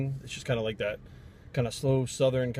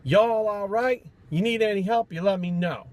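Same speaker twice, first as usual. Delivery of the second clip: high, loud, slow holler across the store; yelling shop lady; 7 semitones higher, 5 dB louder, slower than usual. Retold or imitated. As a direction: call out to the whole shop like a bored clerk. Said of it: "the lady yells".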